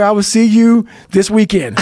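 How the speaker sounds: chuckling through a playful threat; laughing. Real, not acted. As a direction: laugh while you tease your buddy. Teasing friend, laughing.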